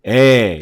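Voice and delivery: 에 slow and darkened; dark A sound. Shown as a demonstration. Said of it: "조금 어둡게". (어둡게 낮춘 에)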